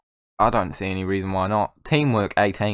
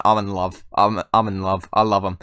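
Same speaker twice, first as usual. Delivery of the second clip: ordinary talk, nothing marked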